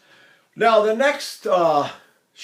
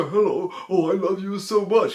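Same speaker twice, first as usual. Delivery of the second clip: unromantic soft-palate lover; 2 semitones higher than usual. Retold or imitated. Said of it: "imagine young romantic leads and they say".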